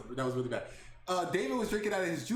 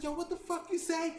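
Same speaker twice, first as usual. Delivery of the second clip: mock tough guy; 10 semitones higher than usual. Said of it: "I'm gonna act hard".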